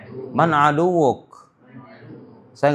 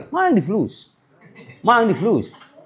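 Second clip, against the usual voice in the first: ma indi fulus in a light Arab-speaker lilt; 6 semitones higher than usual. Retold or imitated. Teacher mimicking how an Arab speaks. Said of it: "Kan ngomong kayak orang Arab".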